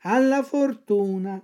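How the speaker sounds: a hint of a cat echoing. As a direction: repeat the fox lazily. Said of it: "ripeté il gatto".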